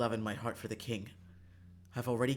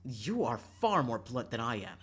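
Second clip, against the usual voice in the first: slow, pointed indignant comeback; indignant retort; 4 dB louder, slower than usual. Acted. Lavender answers Karma on being called blunt, indignant. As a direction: throw the accusation right back, taking your time.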